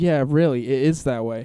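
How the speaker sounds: put-on sarcastic tone. Retelling what the other girl in the car said: imitating a sarcastic tone. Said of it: "like, sarcastic".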